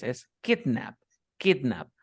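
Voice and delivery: put-on kidnap with the weight on KID, falling after; stress on KID. Shown as a demonstration. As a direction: hit the first syllable of kidnap. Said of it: "la primera sílaba tiene el estrés".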